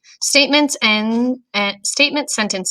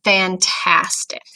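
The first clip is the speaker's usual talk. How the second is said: mock excited; slower than usual. Shown as a demonstration. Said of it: "Look for powerful words in these sentences".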